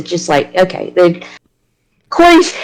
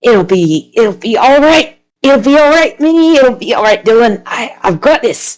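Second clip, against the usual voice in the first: reassuring; 3 semitones higher than usual. Acted. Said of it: "Okay, and he's like".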